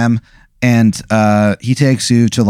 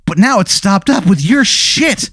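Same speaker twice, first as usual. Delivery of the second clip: mock outrage, higher and emphatic; halting acted indignation, phrase by phrase; angry owner; 4 semitones higher than usual. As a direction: play the fed-up owner, building to the last word. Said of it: "he goes".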